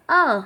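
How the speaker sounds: "अ" as the short sound of A; isolated vowel "अ" for a phonics class; phonics letter sound. Shown as a demonstration. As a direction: sound out "अ" on its own, not the letter name. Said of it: "ए की sound होती है".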